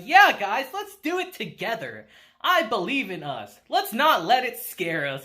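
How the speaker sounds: lightly acted peppy cheerleading; mock-upbeat rallying of friends. Kushida rallying her nervous classmates, mock upbeat. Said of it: "Kushida's all upbeat".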